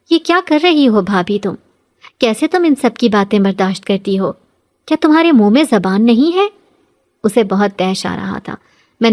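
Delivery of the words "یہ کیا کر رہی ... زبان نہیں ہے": angry scolding. Acted. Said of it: "غصے سے کہنے لگی".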